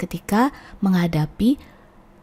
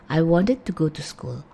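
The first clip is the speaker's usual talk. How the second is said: quicker, reduced "wanted"; fast. Shown as a demonstration. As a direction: run "wanted" together with a lighter "it" ending. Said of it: "kalau kita ngomongnya agak cepat".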